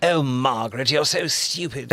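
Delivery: mock English exclamation in received pronunciation. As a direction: play at English RP, punching the word. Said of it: "pretty good received pronunciation".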